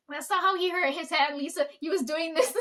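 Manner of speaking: mock pissed-off retort. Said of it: "he gets all pissed".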